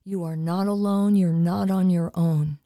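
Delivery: earnest, steady prayer voice for listeners; spoken prayer. Acted. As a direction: pray over the audience with calm conviction.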